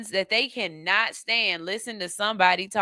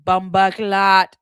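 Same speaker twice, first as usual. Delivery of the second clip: bumba clot slow, lowered and loud; low seductive voice; 7 dB louder, slower than usual. Acted. Suitor talking patois in her ear, low voice. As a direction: drop it low, drawn out. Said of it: "put your voice down real low".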